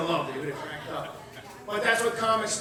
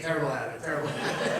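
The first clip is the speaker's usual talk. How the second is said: laughing; 8 semitones lower, 5 dB quieter, faster than usual. Real, not acted. Laughing through the quote.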